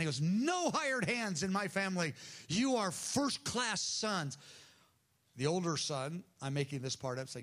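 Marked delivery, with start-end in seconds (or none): 0.2-4.4 higher-pitched, emphatic declaration; acted fatherly insistence, pitched up. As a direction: cut in and proclaim it, slowing on the last sentence. Father interrupts his son's plea.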